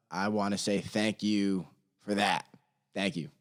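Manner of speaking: mock prayer. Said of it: "What a prayer right there".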